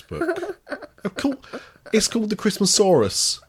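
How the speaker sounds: high, loud laughing protest. Real, not acted. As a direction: laugh through the words. Laughing while scolding jokingly.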